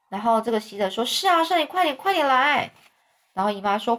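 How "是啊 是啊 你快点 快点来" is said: urgent pleading. Acted. Boy urging aunt in panic.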